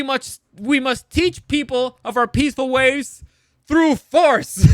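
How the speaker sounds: a hypocrite working himself up to a yell; ranting Campion. Retold or imitated. Campion defending punching Paul to Mother, mock rant building to a shout. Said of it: "And Campion is like".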